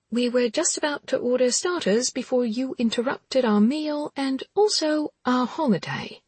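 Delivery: snippy irritated heroine; irritated woman voice. Acted. Anna voiced in dialogue.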